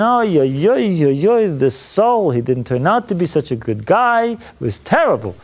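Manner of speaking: a lightly voiced mopey groan, fading at the end; mock moping lament. Priest imitating Samuel moping over Saul, mock lament. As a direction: whine it like a sulking prophet, then trail off. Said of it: "moping around saying".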